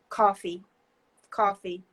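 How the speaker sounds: "coffee" in a New Jersey accent. Shown as a demonstration. Demonstrating the hometown accent, New Jersey "coffee". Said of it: "can you hear my accent".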